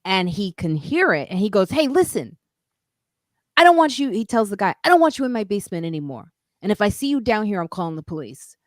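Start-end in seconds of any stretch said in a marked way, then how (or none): 1.7-4.1 much higher, sharp warning; the super telling the guy off, voice way up; angry super. Retold or imitated. 4.8-8.6 bold warning. Retold or imitated. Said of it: "he got really bold".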